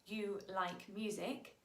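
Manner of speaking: "You like music" in slow, separate words; statement. Shown as a demonstration. Teacher giving the statement first, slow measured "You like music". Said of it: "you say the statement first".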